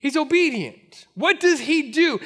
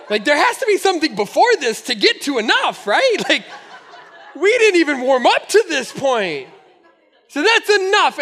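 incredulous protest; 4 dB louder than usual. Retold or imitated. Retelling his exasperated inner thoughts.

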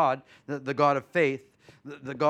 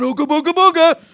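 high, loud, spooky mock threat; mock-spooky soldiers taunting; mocking scary taunt; 12 semitones higher, 12 dB louder than usual. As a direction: ham up a scary boogeyman. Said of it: "everybody else is going".

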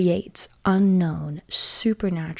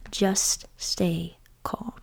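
soft whisper; 5 dB quieter, much slower than usual. Acted. Reading Moses' words softly.

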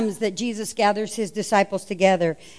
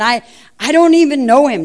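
stern denial; 2 semitones higher, 7 dB louder than usual. Retold or imitated. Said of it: "he gets a little more stern".

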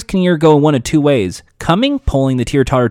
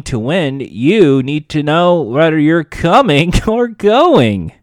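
host impression; 3 semitones higher, 3 dB louder, slower than usual. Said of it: "Bob Barker would often say".

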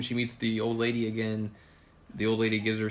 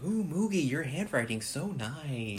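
admiring; 5 semitones higher, slower than usual. Retold or imitated. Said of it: "Yui being like".

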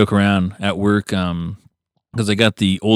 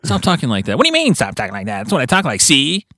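put-on old gangster voice; 5 semitones higher than usual. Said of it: "he's like".

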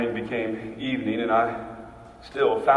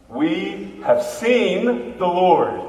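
joyful proclamation; 5 semitones higher, 4 dB louder, much slower than usual. Acted. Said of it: "they cried out".

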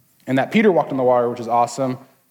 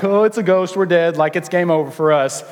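mock terror; 3 semitones higher than usual. Preacher imitates terrified disciples seeing a figure on water, mock panic. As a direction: play the scared crew, half in jest. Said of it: "they're all terrified".

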